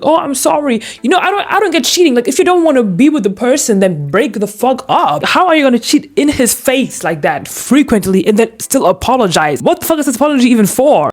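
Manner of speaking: high mocking sorry voice; mock apologizing cheater. Mocking the cheater's apology, high sneer. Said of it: "has the balls to sit here and be like".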